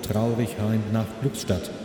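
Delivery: tinny platform loudspeaker voice; station announcement. Acted. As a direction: read it like a station PA. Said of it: "ich höre gerade die Bahnhofsdurchsage".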